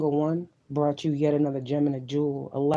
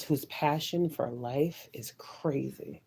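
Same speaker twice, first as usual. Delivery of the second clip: breathy whisper of awe; hushed, awed whisper to the listener; 6 dB quieter, slower than usual. Real, not acted. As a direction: whisper it like a secret. Intense praise dropping to whisper.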